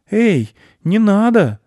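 very high, loud, drawn-out call; boy yelling a warning; alarmed boy. A narrator's reading. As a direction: cry out to stop him. Boy calls out to stop wolf.

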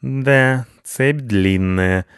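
unhurried, drawn-out observation; note it coolly, stretching the words; composed and slow; calm. A narrator's reading. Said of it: "спокойно отметил Рыжопиус".

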